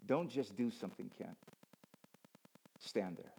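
soft, hushed and falling low; God whispering gently. Acted. God into his ear, opposite to dad, hushed. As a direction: speak quietly, as if into someone's ear. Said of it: "God is whispering in my ear".

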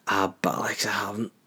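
soft, trailing guilty admission; sheepish reply. Retold or imitated. Caught out by his partner, sheepish and soft. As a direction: let it shrink away as you own up.

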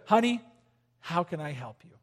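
soft and gentle, dropping away; gentle question. Shown as a demonstration. Husband gently offering his wife help. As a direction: say it tenderly to her. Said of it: "say this to your wife".

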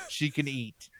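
conspiratorial whisper to a stranger; imitated whisper. Stocky guy whispers to the customer about his girlfriend. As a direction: let it slip like a secret aside.

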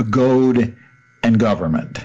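God pronounced Goad, long oh like goat. Real, not acted. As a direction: say Goad and Government with a goat vowel. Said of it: "I should know how to pronounce it".

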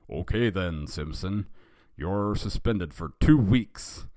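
slow, stern sentencing; severe. Acted. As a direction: lay down the punishment with mild severity. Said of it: "in a severe tone".

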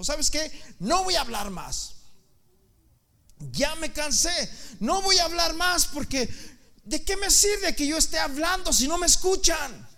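high, loud exasperated outburst; acted weary protest, pitched high; fed-up prophet. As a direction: declare you are done, at full voice. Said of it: "Jeremías estaba tan cansado".

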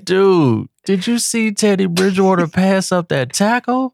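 high and laughing, can't believe it; laughing disbelief. Real, not acted. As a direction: squeal it out mid-laugh. Laughing, high-pitched outburst.

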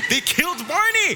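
high-pitched, hammed-up anguish; mock crying wail. Kid whose Barney piñata was killed, mock crying wail. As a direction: wail it like a devastated little kid. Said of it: "And, and I'm crying".

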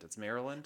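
"Maryland" as MAIR-uh-lund, reduced ending, questioning; local pronunciation. Shown as a demonstration. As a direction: say "Maryland" with a weak, swallowed "lund". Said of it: "I thought it was Maryland".

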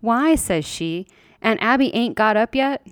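high, wide-eyed question; innocent surprise. Acted. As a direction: ask it like a startled child. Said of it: "sort of innocent and surprised".

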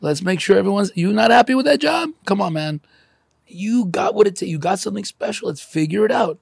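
rally an unhappy worker like a cheerful Papa Smurf; Papa Smurf pep talk. Retold or imitated. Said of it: "a selfish Papa Smurf going".

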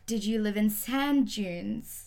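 very slow, drawn-out naive questions; slow naive questioner. Retold or imitated. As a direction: ask it slowly like a clueless local. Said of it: "I've gotten a lot of".

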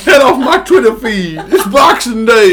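loud mock snap through laughter; laughing retort. Friend plays along with the joke, laughing loud retort. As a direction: bark it back while cracking up.

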